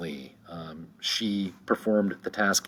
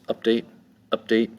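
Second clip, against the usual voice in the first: "Update" with UP higher and stressed; stress on first syllable; 4 semitones higher, 4 dB louder than usual. Shown as a demonstration. Teacher showing two syllables, "Update" stressed on the first. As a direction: punch UP in each "update". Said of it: "the first syllable has the".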